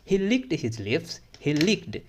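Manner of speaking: very slow, leaning on licked; slow model reading. Shown as a demonstration. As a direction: stretch the phrase out for learners. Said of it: "teacher models the phrase". (धीमा, साफ़ उच्चारण)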